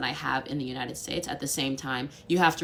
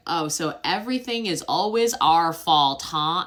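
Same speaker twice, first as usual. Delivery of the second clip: louder mock indignant comeback; defensive French retort; 6 dB louder than usual. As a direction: play offended friends snapping back. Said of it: "they were like".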